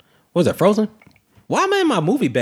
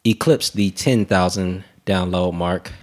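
ringmaster; 4 semitones lower than usual. Pretend. Podcast milestone announcement, ringmaster style.

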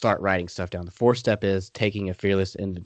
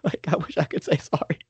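regretful inner voice; 6 semitones higher than usual. Retold or imitated. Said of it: "you're like".

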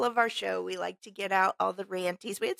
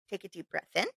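guided breathing; 2 semitones lower, 3 dB quieter, faster than usual. Shown as a demonstration. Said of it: "Here we go".

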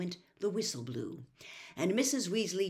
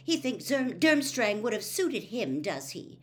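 higher, louder indignant voice; angrily; 5 semitones higher, 5 dB louder than usual. Acted. Hermione fumes about Malfoy, angry and louder. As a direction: let the irritation show. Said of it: "she said angrily".

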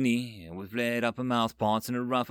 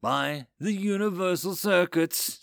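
raised, exclaimed oath; an appalled machine overlord swearing; 7 semitones higher than usual. A narrator's reading. Overseer reacts to burial custom, swearing. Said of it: "swore the overseers".

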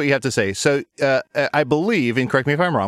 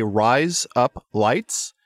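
slow, drawn-out demo of Australian "razor blades"; slow Australian accent lesson; Australian-accent trick; much slower than usual. Shown as a demonstration. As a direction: say "rise up lights" slowly so it passes as Australian. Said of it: "that's how an Australian says razor blades".

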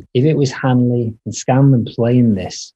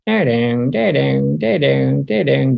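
guitar riff imitation; 3 semitones higher, slower than usual. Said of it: "doing that one".

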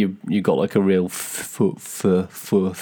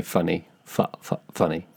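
posh accent; 2 semitones lower, 5 dB quieter than usual. Shown as a demonstration. Showing the friend how posh people say it, posh accent. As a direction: softly try out a posh "fuh" in "funny". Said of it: "If you were posh, you'd say".

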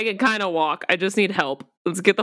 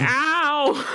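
flat spoken ow; just say the word ow; deadpan ow; 7 semitones higher than usual. Acted. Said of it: "I'm just gonna say".

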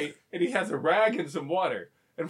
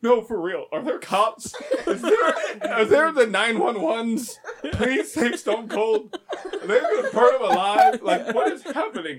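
higher, louder pleading, laughing as it goes; slowed-down mock desperate pleas; mock panic; 5 semitones higher, 4 dB louder than usual. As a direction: beg like a horrified fan watching live. Panicked fan begging for help.

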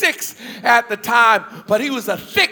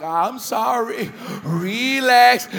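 put-on easy now, trying to calm a bigger kid down; calm pleading; slower than usual. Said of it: "trying to talk calm to him".

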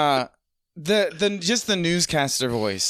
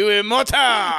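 higher, louder mock French; fake French accent; 6 semitones higher, 5 dB louder, slower than usual. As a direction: toss off hammy French.

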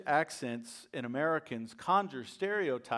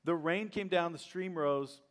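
scripture reading. Acted. Reads the words of Jesus.

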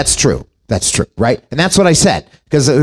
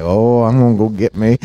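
mock woman; 6 semitones lower than usual.

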